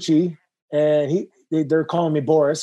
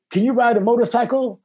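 lightly voiced impression, pitched up; a hint of imitated wrestling veteran, higher-pitched; Dusty Rhodes; 5 semitones higher than usual. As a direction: put on a mild higher character voice. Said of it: "doing a Dusty impression".

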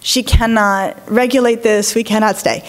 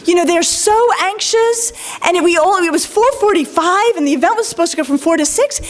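higher, indignant outraged-parent rant; mock angry complaint; 7 semitones higher than usual. A parent scolding the school on an imagined call, mock outrage. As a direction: play the fuming parent on the phone, lightly. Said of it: "I could call and be like".

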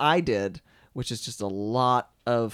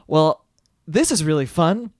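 excited inner voice; 10 semitones higher, 7 dB louder than usual. Retold or imitated. Voicing his own inspired thought.

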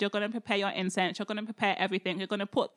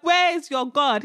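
taunt; 3 semitones higher, 6 dB louder than usual. Acted. Elijah taunts the praying prophets.

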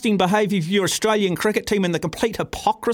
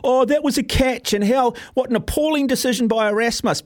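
lightly mocking, higher-pitched protest; a touch of put-on outrage; mock crybaby complaint; 4 semitones higher than usual. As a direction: imitate sore losers complaining. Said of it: "like a bunch of crybabies".

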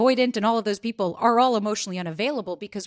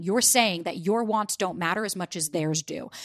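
normal talking voice

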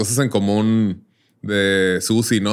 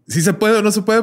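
much higher, louder blunt northern Mexican demand; northern Mexican accent, pushy demand; blunt northern talk; 12 semitones higher, 4 dB louder than usual. Retold or imitated. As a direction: put it to him hard, the northern Mexican way. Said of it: "le hablaste muy feo".

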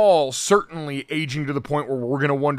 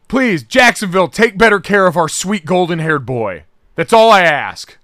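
mock pleading; 4 semitones higher, 9 dB louder than usual. Pleading to Jacksonville.

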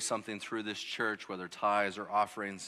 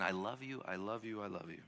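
tender whisper of love; 6 dB quieter than usual. Acted. God's voice speaking to sinner.

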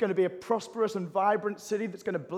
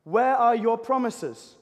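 raised, high-pitched cry of complaint to God; angry, frustrated; 5 semitones higher, 6 dB louder than usual. Acted. Returned exiles demanding God keep his promises, angry and frustrated. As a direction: demand answers from God, loud and impatient. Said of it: "they're angry, frustrated, and impatient".

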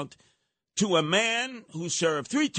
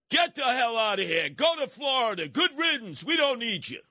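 mock Hochul; 7 semitones higher than usual. Imitating Hochul telling Republicans off.

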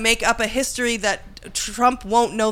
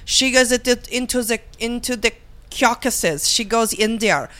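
put-on Russian accent. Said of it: "a Russian operative?".

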